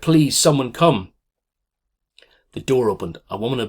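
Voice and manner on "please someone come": desperate call. Acted. Boy calls at hospital door.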